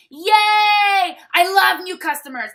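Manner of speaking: high, loud gushing "Yay!"; excited reply. Retold or imitated. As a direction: squeal it like a thrilled seller greeting a customer. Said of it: "I literally reply".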